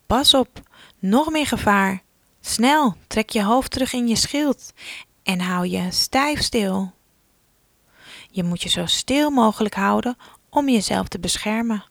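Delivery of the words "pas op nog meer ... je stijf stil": urgent warning. Pretend. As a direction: sound the danger call to a child. Danger warning in story.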